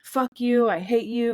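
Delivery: half-hearted venting demo; mild mock rage. Shown as a demonstration. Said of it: "saying out loud what you're feeling".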